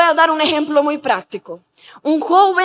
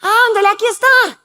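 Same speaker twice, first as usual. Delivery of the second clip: higher-pitched imitation of pushy friends; coaxing friends; 4 semitones higher than usual. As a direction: tempt him, pressing and playful. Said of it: "Y está con los amigos y dicen". (amigos insistentes, imitados con voz más aguda)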